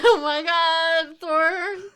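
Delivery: loud laughing exclamation; high excited shout. Real, not acted.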